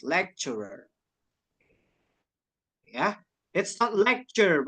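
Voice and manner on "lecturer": "Lecturer" as LEK-cher-er. Shown as a demonstration. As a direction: demonstrate "Lecturer" softly, CH for the T. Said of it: "Kayak gitu". ("Lecturer" lebih lembut, dibaca lek-cer-er)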